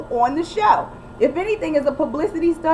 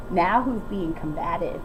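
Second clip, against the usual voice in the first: pointed retort; 8 semitones lower, 6 dB quieter than usual. Shown as a demonstration. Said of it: "this is how you have to respond".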